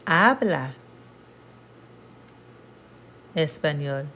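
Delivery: "¿Por qué mi familia habla español?" read slowly word by word; slow Spanish answer. Shown as a demonstration. Teacher reads the answer slowly for students. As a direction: space out each Spanish word. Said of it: "an answer to that would be".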